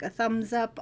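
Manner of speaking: normal talking voice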